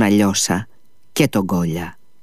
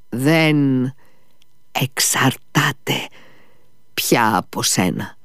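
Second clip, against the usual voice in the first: impatient; 2 semitones higher, 4 dB quieter, slower than usual. A narrator's reading. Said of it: "πρόφερε ανυπόμονος ο γιατρός".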